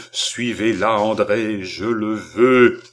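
stern mesmerist's command. Acted. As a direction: lay down the command. Balsamo commands the seer.

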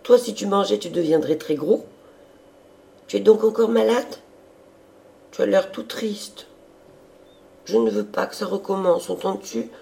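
high, insistent sister's voice; fretting younger sister. A narrator's reading. Sister worrying her brother is ill again, high and insistent. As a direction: scold him with concern, pitched high.

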